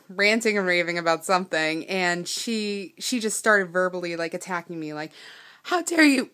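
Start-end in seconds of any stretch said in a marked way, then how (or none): 5.6-6.3 high, loud outraged snap at a stranger; angry stranger in a parking lot yelling. Retold or imitated. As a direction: retell her furious yell with real heat. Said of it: "yelling, full of fire".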